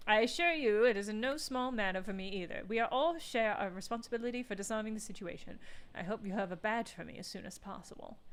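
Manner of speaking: British lady negotiator. Acted.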